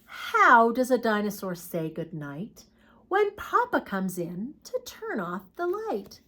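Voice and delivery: storybook read, fading into a hushed whisper on the end; reading to children. Acted. Teacher reads bedtime picture book to the class, hushed storytelling.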